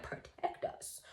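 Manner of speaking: retold aghast whisper; incredulous whisper. Listener reacting to a vow of protection, whispered. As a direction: whisper it in mock disbelief.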